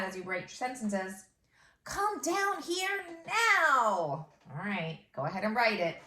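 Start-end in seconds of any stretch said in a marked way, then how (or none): 1.8-4.3 slow dictation. Shown as a demonstration. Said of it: "dictating slowly".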